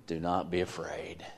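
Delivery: a soft unvoiced whisper; whispered comfort. God comforting Abraham in the vision, whispering. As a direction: whisper it gently to the listener. Reading God's words in Genesis.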